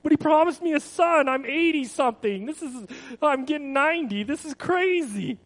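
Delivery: half-laughing at how absurd it is; awkward laughing. Retold or imitated. Abram laughing at being promised a son so old. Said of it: "laughed about that awkwardly".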